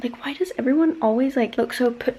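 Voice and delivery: loud, emphatic venting; playful rant. Real, not acted. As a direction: rant loudly about it, leaning on key words. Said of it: "not gonna go on a rant".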